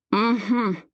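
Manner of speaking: wordless murmur through a covering hand; muted closed-mouth hum; muffled murmur. A narrator's reading. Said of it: "I murmur through his hand".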